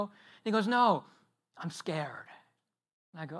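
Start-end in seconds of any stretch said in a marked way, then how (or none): 0.7-2.3 put-on small scared child. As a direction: play the toddler faking fright. Son claims fear at bedtime.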